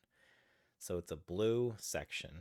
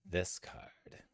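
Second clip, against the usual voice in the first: whispering. Real, not acted. Muttering while searching for card.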